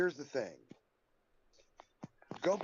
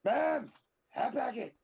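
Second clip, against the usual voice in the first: high, slow whiny plea; mock desperate fan; 8 semitones higher, 4 dB louder, slower than usual. Host echoing the mock fan, high slow whine. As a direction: beg like a pathetic fan.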